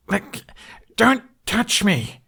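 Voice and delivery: high, loud, slow shout; furious yell. Acted. Hiccup yelling as the Viking grabs him. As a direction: fight them off with your voice. Hiccup struggling against grip.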